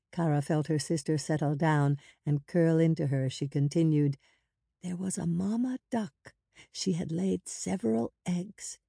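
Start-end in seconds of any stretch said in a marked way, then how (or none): 4.8-8.8 soft, gentle tale-telling; hushed, lilting story voice; bedtime storytelling. A narrator's reading. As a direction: tell it softly to soothe a little sister. Girl tells sister bedtime story.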